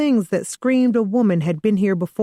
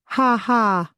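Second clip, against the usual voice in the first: laughing; 5 semitones higher than usual. A narrator's reading. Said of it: "He eyed me and laughed".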